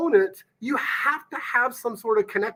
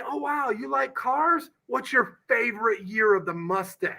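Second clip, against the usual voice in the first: curious question; 3 semitones higher, 3 dB quieter than usual. Shown as a demonstration. Coach modelling the right question to a prospect, softly curious. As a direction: show genuine curiosity about their car.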